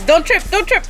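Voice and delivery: urgent warning shout; calling out a warning. Real, not acted. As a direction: call out sharply, don't trip. Warning someone carrying water.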